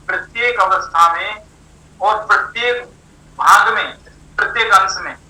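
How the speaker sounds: phrase by phrase, pausing between each; slow, careful explaining. Real, not acted. Teacher spelling out a hard definition for students, slowly and deliberately. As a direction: give each phrase time to sink in. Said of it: "धीरे धीरे बोल रहा हूँ".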